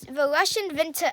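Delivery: a hint of a German accent, v for w in winter; Russian winter said with a slight German accent, vinter; slipping German accent. Real, not acted. Kid explaining the war to Mom, slips into a light German accent. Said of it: "I'm starting to get a German accent".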